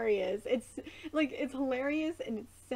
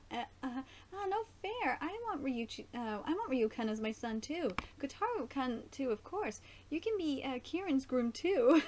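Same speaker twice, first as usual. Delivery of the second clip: mothers' voices; 3 semitones higher than usual. Retold or imitated. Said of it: "reading the mothers' lines".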